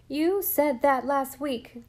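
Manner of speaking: put-on slow, high and loud boy's protest; indignant. A narrator's reading. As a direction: cry it out in indignation, drawn out. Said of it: "cried Jem indignantly".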